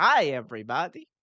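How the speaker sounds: cheery, upbeat cartoon doctor character voice. Greeting a co-host after being told he sounds like the Simpsons doctor, Dr. Nick impression. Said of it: "You sound like the doctor dude from The Simpsons".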